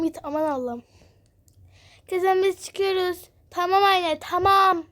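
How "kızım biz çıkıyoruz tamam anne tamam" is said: high, raised-voice call; loud pretend shout to another room. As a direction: call it through the house. Calling out when leaving the house.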